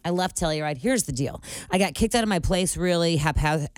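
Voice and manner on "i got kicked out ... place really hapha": talking around a retainer; slurred speech with retainer in; wearing a retainer. Real, not acted. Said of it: "I can't say it with my retainers in".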